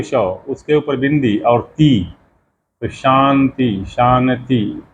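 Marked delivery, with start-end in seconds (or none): 2.8-4.8 शांति slowly, nasal n before ती; bindu as n. Shown as a demonstration. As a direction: say शांति as shanti with an n. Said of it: "वो न का उच्चारण कर देते हैं".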